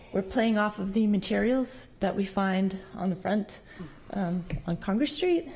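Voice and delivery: out of breath after running. Real, not acted. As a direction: talk while still catching breath. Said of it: "sorry, I'm out of breath".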